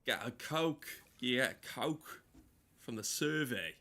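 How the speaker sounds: put-on rough Australian accent, Coke stretched out; hammed-up Australian drawl on the Coke order. Streamer parodies Aussie delivery requests, bad Australian accent. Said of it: "I can't fucking do an accent".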